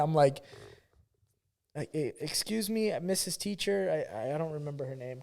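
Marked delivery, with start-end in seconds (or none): 1.8-4.1 soft, halting, meek request; mock timid pupil. New pupil asking the teacher for help, mock timid. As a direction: play a shy kid stammering politely.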